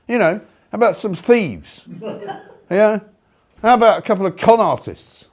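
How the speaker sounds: host cracking up mid-rant; laughing. Real, not acted. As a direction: let the laugh break in as you list them. Laughs through his own list.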